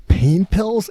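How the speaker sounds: high, loud hopeful ask, retold; pleading question. Acting his exasperated request to doctor.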